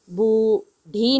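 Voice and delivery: the wrong "बूढ़ी", with a hard stopped ढ. Shown as a demonstration. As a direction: stop the tongue firmly in "बूढ़ी". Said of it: "नहीं होगा".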